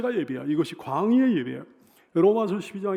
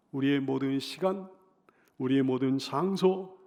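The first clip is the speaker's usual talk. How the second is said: ordinary talk, nothing marked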